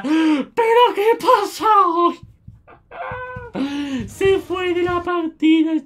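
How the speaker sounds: milk the disbelief; exasperated disbelief. Real, not acted. Gamer to viewers as players quit again, high exasperated disbelief. Players keep leaving the match.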